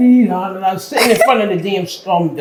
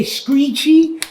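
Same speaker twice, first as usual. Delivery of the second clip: "Screechy" said the Jamaican way, slid out long with a rise; Jamaican way of saying it; 3 semitones higher than usual. Retold or imitated. Telling friends how Jamaicans say "Screechy". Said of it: "Like how the Jamaicans would say".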